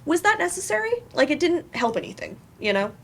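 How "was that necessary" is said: gentle correction. Retold or imitated. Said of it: "gentle correction of, like".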